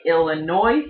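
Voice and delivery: "Illinois" said as spelled, "ill-uh-NOISE"; spelling pronunciation. Shown as a demonstration. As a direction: voice the silent S of "Illinois". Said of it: "how I remember how to spell it".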